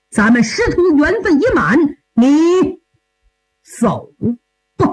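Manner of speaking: lightly voiced old master, grieving, with long pauses; 老师傅伤心送徒. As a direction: send your pupil off with a heavy heart, haltingly. (老师傅难过地缓缓道别)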